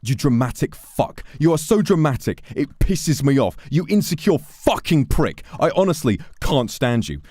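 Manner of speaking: loud, high mock rant; imitating Deji raging. Retelling a meme, a loud mock tirade at someone. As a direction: rant like a furious streamer losing it. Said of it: "It's the one about Deji going".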